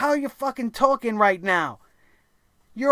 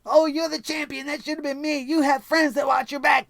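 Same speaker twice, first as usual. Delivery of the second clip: whiny mock voice; 3 semitones higher than usual. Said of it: "crying about Kofi Kingston having friends".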